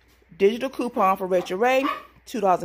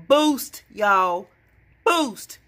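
excited yelling; 3 dB louder, much slower than usual. Real, not acted. Vlogger yelling her penny find to viewers, excited. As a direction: shout out the find with real delight. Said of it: "I sound like I'm yelling at y'all".

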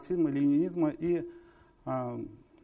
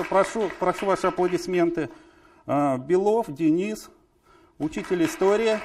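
raised, projected presenter voice; announcer introduction; 3 semitones higher, 5 dB louder than usual. Real, not acted. Host presenting circle members to audience, announcer introduction. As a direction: announce each name to the hall.

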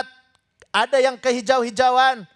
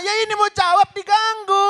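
higher-pitched exasperated protest; mock indignation; 6 semitones higher than usual. Host protests being interrupted while answering, mock indignation. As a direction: complain as if cut off mid-answer.

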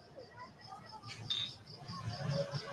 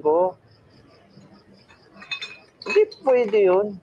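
put-on slurred, drunken rambling. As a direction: talk like a sad drunk at the bar. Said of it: "Kaso hubog naman ka".

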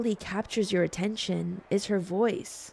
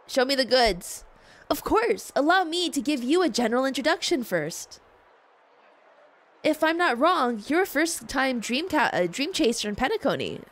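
bright shopkeeper voice; 3 semitones higher than usual. Acted. Voicing shopkeeper character.

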